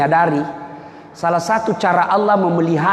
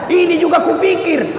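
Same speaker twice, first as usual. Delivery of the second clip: retold shout; 9 semitones higher than usual. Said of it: "Dia teriak, dia bilang".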